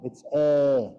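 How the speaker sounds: long pure "E" with no glide; long Sanskrit E. Shown as a demonstration. Teacher demonstrating the Sanskrit vowel E, long. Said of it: "everybody's wrong".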